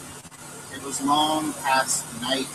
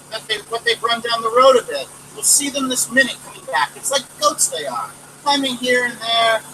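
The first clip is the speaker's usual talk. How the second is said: lightly voiced young girl, higher, brushing off worry; Nell reassuring mother; 5 semitones higher, 4 dB louder than usual. Daughter soothing her anxious mother, breezy and a bit higher.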